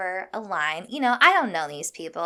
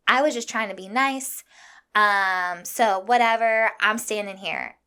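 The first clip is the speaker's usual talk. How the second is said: imitating a dismissive line-cutter, pushed a little louder; mock her brush-off attitude; 4 dB louder than usual. Line-cutter brushing off the woman she cut, mock dismissive. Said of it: "dismissing me and giving me all the attitude".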